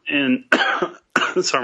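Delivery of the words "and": coughing after water went down wrong; clearing a cough mid-sentence. Real, not acted. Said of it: "my water went down the wrong end".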